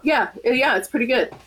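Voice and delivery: raspy voice like a chain smoker; hoarse sick smoker's rasp. Real, not acted. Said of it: "so I sound like a chain smoker".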